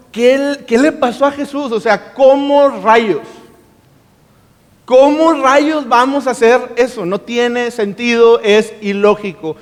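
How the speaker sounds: can't believe what Jesus asks; baffled disbelief. Retold or imitated. Disciples thinking about Jesus's request, baffled. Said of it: "los discípulos están pensando".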